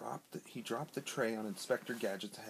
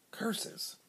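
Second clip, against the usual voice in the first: higher, whispered snarl; snarled curse; 12 semitones higher than usual. A narrator's reading. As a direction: spit it out under the breath. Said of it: "snarled the porter".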